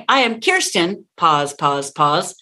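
"I am Kirsten", then low spaced pauses; scored pause. Shown as a demonstration. Coach counting out the score, pauses after "Kirsten". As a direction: leave dots of silence after "Kirsten". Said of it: "which means pause".

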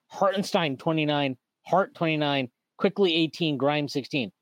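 low, flat listing of numbers; flat minutes reading. Real, not acted. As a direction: read the box score in a dry, low voice. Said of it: "Let me just read the minutes off".

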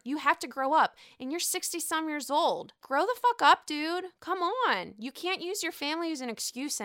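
outraged fan scolding a selfish husband; angry rant. Real, not acted. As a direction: scold him hard like he's right there. Ranting at Michael.

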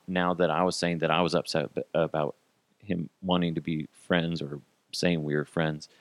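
usual speaking voice

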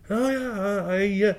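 high, soft imitation of an Armenian-like accent; Fausto Vitello. Old man answering a young stranger, imitated Armenian-like accent.

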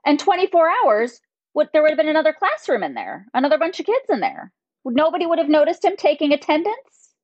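scolding like a fed-up mom. Real, not acted. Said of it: "Did you hear just my mom voice come out?".

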